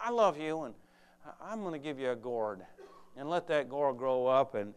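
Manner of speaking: lightly voiced loving God, gentle; tender voice of God. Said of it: "And God says".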